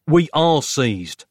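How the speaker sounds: slow, deadpan wisecrack; dry quip. A narrator's reading. Nick quips as the guard grabs them. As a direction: drag it out, wry and too late. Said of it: "Nick quipped".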